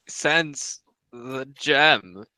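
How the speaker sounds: very slow synthetic voice; drawn-out computer voice; robot voice. Acted. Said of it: "in the robotic voice".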